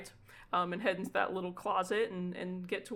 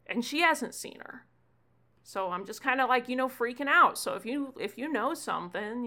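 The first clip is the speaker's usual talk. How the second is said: put-on higher, louder anxious kid voice; a fretting kid spilling out his worry; worried kid Gunther; 3 semitones higher, 3 dB louder than usual. Gunther tells Ewan his friend is missing, anxious kid voice.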